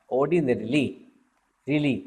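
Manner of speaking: "ordinarily" said out with its full "-rily" ending; spelling-guided pronunciation. Shown as a demonstration. Teacher showing students how ordinarily is spelt, spelling-guided pronunciation. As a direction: sound out "ordinarily", then its tail "really". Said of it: "याद रखने की spelling में ना ऐसे लिखा हुआ है".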